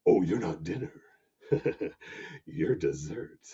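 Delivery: hungry whispered aside, soft; sly whisper. Acted. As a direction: breathe it like a secret threat. Lion's sly thought.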